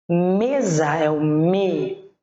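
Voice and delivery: Mesa very slowly, ME held long; stress on ME. Shown as a demonstration. Teacher picking out the tonic syllable, holding ME in Mesa. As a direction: stretch the first syllable ME in Mesa, then isolate it. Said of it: "que é a sílaba mais forte".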